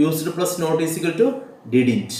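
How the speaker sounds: each word spaced out slowly for writing down; slow dictation. Shown as a demonstration. Teacher dictating contraction rules to students, very slow and deliberate. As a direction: read it out slowly so students can copy.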